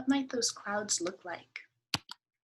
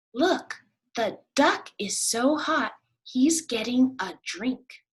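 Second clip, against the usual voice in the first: higher, louder duck voice; eager duck; 5 semitones higher, 7 dB louder, slower than usual. Acted. Duck showing the rabbit, higher and eager. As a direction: point it out eagerly.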